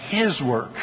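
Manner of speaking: "his" set apart and emphasized; stress on HIS. Real, not acted. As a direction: lean firmly on "his" before "work". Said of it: "I like to emphasize that word".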